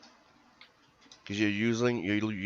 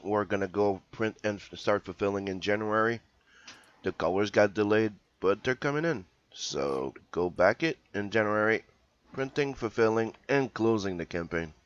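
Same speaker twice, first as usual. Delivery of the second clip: hoarse just-woke-up voice; rough, groggy morning voice. Real, not acted. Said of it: "rough morning voice".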